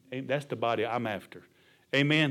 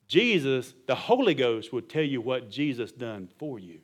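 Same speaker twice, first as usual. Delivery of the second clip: deliberate phrases with pauses between; slow, deliberate repeat. Shown as a demonstration. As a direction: spell it out slowly for the congregation.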